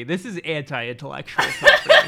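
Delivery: laughing through a punchline. Real, not acted. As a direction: grin and laugh it out. Delivering a prepared joke.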